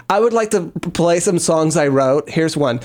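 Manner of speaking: lightly put-on British accent; mock a British musician introducing songs in a British accent. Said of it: "you have to practice your British accent".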